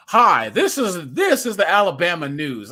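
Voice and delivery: lightly voiced General American news anchor; mock newscaster greeting, standard American accent; accentless Alabama newscaster in General American. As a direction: present local news in a neutral West Coast accent. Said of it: "that's not how people in Alabama speak".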